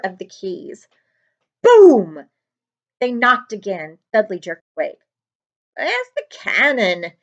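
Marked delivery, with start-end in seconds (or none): 1.6-2.2 a sudden booming knock; loud boom. A narrator's reading. Narrator booms the giant's knock on the door. 5.8-7.1 said stupidly. Acted. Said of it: "he said stupidly".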